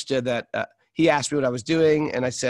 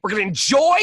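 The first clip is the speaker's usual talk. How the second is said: giddy dreaming; 8 semitones higher, 4 dB louder, faster than usual. Retold or imitated. Mock emigrants dreaming of America.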